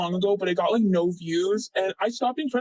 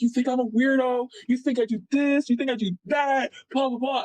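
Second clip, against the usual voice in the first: imitating a defensive, offended friend, higher-pitched; mock indignation; 5 semitones higher than usual. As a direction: throw out mock accusations in a raised pitch. Retold friend's defensive outburst.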